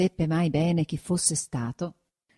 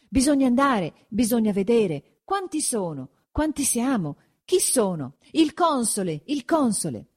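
higher, agitated crowd voices; tumultuous debate; 6 semitones higher than usual. A narrator's reading. Villagers in tumultuous consultation, agitated. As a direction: toss out raised exclamations like a crowd. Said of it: "comincia una consulta tumultuosa".

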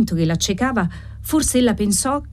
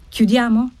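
higher-pitched impatient question; impatient husband's prompt; 5 semitones higher than usual. A narrator's reading. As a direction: ask it impatiently, pitch lifted. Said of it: "disse il marito impaziente".

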